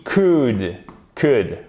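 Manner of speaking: "could" with no L sound; short "could", L unspoken; silent L. Shown as a demonstration. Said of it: "On ne prononce pas le L".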